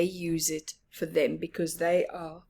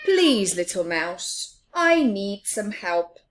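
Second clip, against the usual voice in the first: pleading; 6 dB louder than usual. Acted. Big Mouse pleads.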